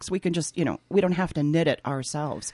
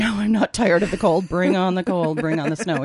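excited; 2 semitones higher, 7 dB louder than usual. Real, not acted. Eager for snow, laughing.

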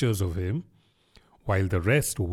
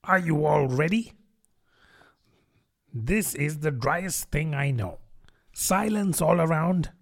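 higher-pitched mouse voice, formally reciting history; self-important mouse lecturer; 5 semitones higher than usual. A narrator's reading.

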